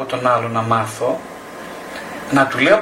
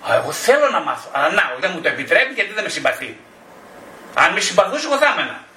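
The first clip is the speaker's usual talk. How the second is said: mock whiny excuse; 4 semitones higher than usual. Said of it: "ή θα μου πει".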